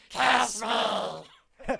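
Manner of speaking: high, very loud cartoon squawk; squawky cartoon demand. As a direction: screech it demandingly.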